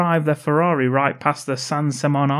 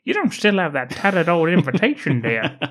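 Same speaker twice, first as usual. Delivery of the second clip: put-on old prospector; 3 semitones higher than usual. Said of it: "He's now some old prospector from the Wild West".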